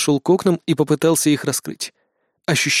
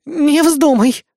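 higher, louder warning snarl; growling; 11 semitones higher, 4 dB louder, much slower than usual. Acted. Eris warns Casanova off jumping, angry loud order. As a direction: bark a hard warning. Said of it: "прорычала Эрис".

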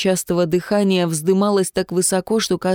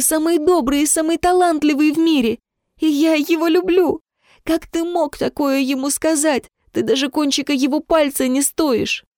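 much higher, desperate and defiant; furious defiant cry; 9 semitones higher than usual. A narrator's reading. Jemma defends Vitya to her father, high furious cry. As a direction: shout your love back in his face.

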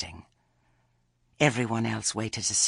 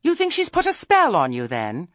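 high, loud challenging question; loud challenge; 10 semitones higher, 11 dB louder than usual. A narrator's reading. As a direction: call her out, voice pitched right up. Nanny challenges Missus Earwig.

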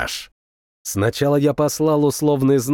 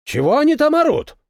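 tank commander; 12 semitones higher, faster than usual. A narrator's reading. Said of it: "проговорил Зорин".

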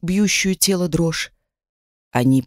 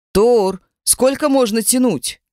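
put-on drunken yell; 5 semitones higher than usual. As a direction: bellow it like a drunk. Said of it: "проорал пьяный голос".

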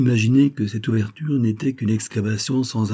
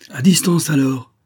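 higher, louder call to keep back; cried warning; 7 semitones higher, 6 dB louder than usual. A narrator's reading. Man in the tunnel warns off the valet, crying out. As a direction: cry it out as an order. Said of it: "cria la voix".

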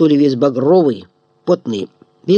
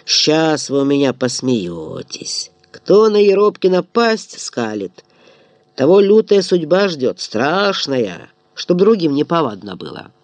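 low menace; 3 semitones lower than usual. Acted. Eropkin menacing. (тихая угроза)

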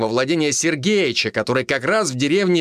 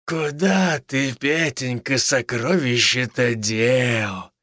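very slow, creepily stretched words; eerie drawl; much slower than usual. A narrator's reading. Villain taunting the captive about the dead boy, a creepy slow drawl. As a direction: drag each word out like a madman. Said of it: "стал вдруг как-то жутко растягивать слова".

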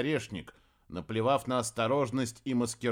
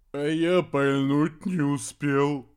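sighing; 6 dB louder, slower than usual. A narrator's reading. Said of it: "вздохнул папа Выдриус".

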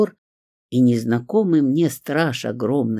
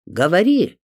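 sharp, much louder and higher order; angry command; 6 semitones higher, 6 dB louder than usual. A narrator's reading. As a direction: bark it out in anger. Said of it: "Он вдруг разозлился". (гневно, громко)

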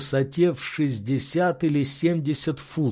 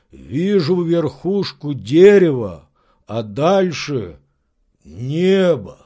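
slow, louder servant's answer; 5 dB louder, slower than usual. Acted. Servant describing the treetop to his master, slow. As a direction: marvel slowly at the view.

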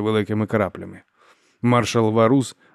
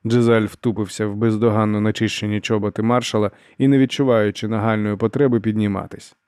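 usual speaking voice

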